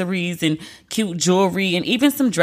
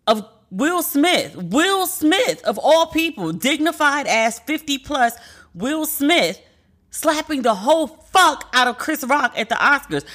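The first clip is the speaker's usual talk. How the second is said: high, stunned disbelief; incredulous; 5 semitones higher than usual. Real, not acted. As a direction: drag out his name in shock. Incredulous retelling of the slap.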